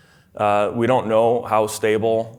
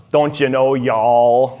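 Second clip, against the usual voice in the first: Minnesota-Texan mock accent; 4 dB louder, much slower than usual. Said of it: "making fun of my Minnesota accent".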